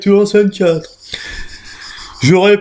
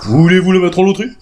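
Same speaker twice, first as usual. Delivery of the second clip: practical; 3 semitones higher than usual. Acted.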